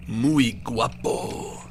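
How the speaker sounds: Muy guapo stretched very slowly; drawn-out muy guapo. Acted. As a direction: savor Muy guapo syllable by syllable. Savoring the Spanish phrase.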